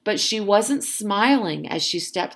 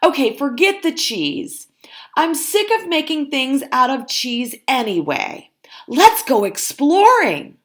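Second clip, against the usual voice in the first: Dolores voice; 7 semitones higher, 5 dB louder than usual. Acted. Dolores pitches exploring.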